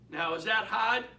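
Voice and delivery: real Boston accent on "hard". Real, not acted. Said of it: "that's my Boston accent".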